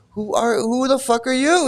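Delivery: high-pitched, quick mock challenge; mock indignant challenge. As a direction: toss it out high, playing the offended guru. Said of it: "what he's saying".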